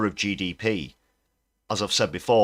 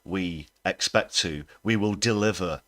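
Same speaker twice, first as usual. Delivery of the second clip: mock politician phrases; slower than usual. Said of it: "it always follows the phrase".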